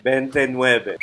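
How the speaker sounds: "Veintinueve" said as "bentenuebe"; Tagalog pronunciation. Shown as a demonstration. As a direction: Filipino "Veintinueve" with a b sound. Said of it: "That's how we spell it in Tagalog".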